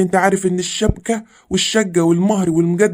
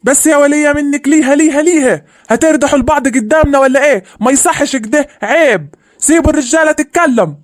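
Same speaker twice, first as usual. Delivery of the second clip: scolding; 6 semitones higher than usual. Acted. Man scolds quarrelling women.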